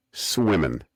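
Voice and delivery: "swimmin'" ending in a plain n, no g; Oklahoma-style "swimmin'", ending on -in; dropped G. Shown as a demonstration. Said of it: "They drop the G".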